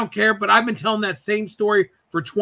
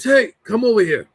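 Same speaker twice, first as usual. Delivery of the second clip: raised-pitch older relative impression; Uncle Freddie; 4 semitones higher than usual. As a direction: summon someone in an uncle's put-on voice. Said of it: "he goes like this".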